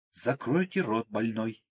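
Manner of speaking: a hint of a stern nurse barking an order; seasoned nurse's voice. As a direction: snap at him like a nurse who has seen it all. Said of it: "голосом бывалой медсестры прикрикнула".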